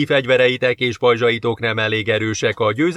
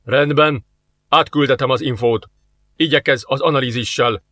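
annoyed. Acted. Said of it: "hangjában bosszúsággal megszólalt".

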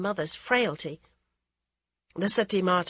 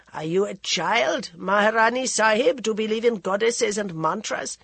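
rebuking holy woman; 3 semitones higher, 5 dB louder than usual. Acted. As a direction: question her like a teacher chiding a child. Ascetic rebukes Maharani.

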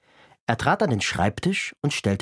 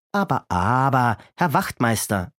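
lightly voiced boy, soothing; calming Kasperl. Kasperl calms the raging constable, soothing. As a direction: settle the angry constable down gently.

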